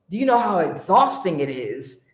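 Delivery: a hint of a weary demon; grumbling demon complaining lightly; demonic voice. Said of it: "like in a demonic voice".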